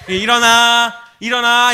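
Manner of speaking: mock motherly yell; mother calling out. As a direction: imitate mom hollering to wake a child. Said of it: "어머니가 이제 부글부글 끓기 시작했어요".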